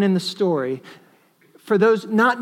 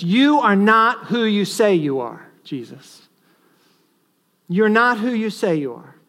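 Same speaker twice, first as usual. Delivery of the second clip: a hint of mocking contempt, louder; scornful taunt; 3 semitones higher, 4 dB louder than usual. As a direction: taunt him lightly with scorn. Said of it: "an attack of scorn upon Jesus, which says".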